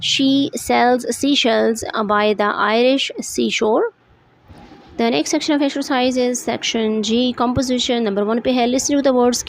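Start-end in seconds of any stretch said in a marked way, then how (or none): 0.0-3.8 the tongue twister read slowly and carefully; tongue twister aloud. Shown as a demonstration. Teacher reading a tongue twister aloud to students, slow and careful. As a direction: take each word slowly and crisply. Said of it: "say this tongue twister aloud".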